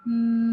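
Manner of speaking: Mass with a held double s; long s. Shown as a demonstration. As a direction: stretch the ss at the end of Mass. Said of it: "pronounce them as one, but a bit longer".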